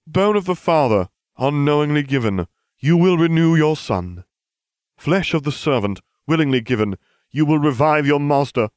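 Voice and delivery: high, loud solemn chanting; ringing ceremonial proclamation; ritual incantation. Acted. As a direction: declaim each phrase like a spell. Servant recites ritual incantation.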